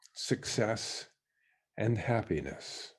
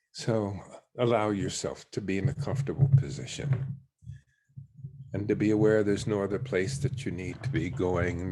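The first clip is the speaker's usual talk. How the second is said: guided meditation. Real, not acted. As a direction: let each phrase settle downward into stillness. Leads a meditation.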